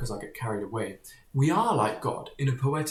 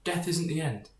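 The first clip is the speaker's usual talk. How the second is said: put-on higher, coaxing voice, like soothing a child; mock reassurance; 3 semitones higher than usual. Religion comforting a scared believer about death, in mock soothing tones. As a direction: comfort someone, a touch hammed-up. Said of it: "religion usually says".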